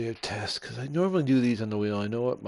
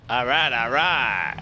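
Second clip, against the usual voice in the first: excited; 3 semitones higher, 10 dB louder than usual. Real, not acted. Car finally responds.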